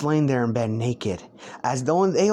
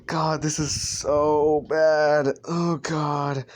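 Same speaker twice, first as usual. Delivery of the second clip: amused dismay; much slower than usual. Real, not acted. Laughing at own story.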